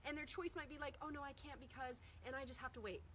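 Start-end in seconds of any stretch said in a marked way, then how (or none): 1.0-3.0 soft, hesitant client excuse. Retold or imitated. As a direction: make excuses quietly.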